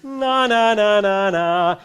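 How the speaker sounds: nasty snarl. Shown as a demonstration. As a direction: put a snarl in it. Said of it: "a bit of a snarl in it".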